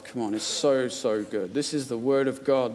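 hushed, earnest appeal; sincere and soft. Real, not acted. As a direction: draw them in gently about the Word. Sincere appeal about Scripture.

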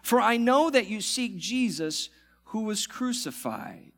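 measured, solemn scripture reading. Acted. Pastor reading scripture to church, solemn.

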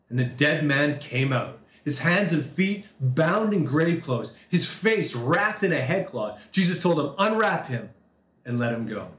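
solemn reading to the congregation; scripture reading. Acted. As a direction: read the passage with reverent weight. Reads scripture passage aloud.

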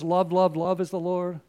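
love, love, love said like a chant; mock wrong version. Shown as a demonstration. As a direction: swap in love with a light mock tone. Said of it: "the Bible never says".

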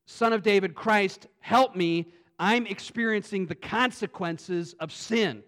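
loud, pleading call for help; pleading cry. Retold or imitated. Beggar crying out to Jesus, loud and pleading. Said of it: "The beggar is saying".

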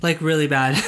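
stuffy, nasal allergy voice. Real, not acted. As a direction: talk through a blocked nose. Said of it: "sorry if I sound more nasally than normal".

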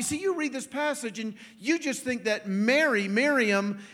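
ordinary talk, nothing marked

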